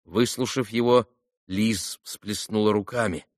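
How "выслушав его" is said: plain reading voice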